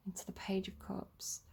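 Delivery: drops to a breathy whisper on the card name. Real, not acted. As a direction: whisper it like a secret. Tarot reading, sudden hush.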